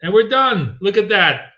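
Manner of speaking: high, loud, excited cheer; real burst of triumph; triumphant call. Real, not acted. Kill shot trade pays off.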